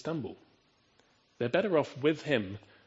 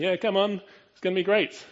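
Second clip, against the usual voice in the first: encouraging parent; 8 semitones higher, 7 dB louder than usual. Pretend. Calm parent encouraging child to jump.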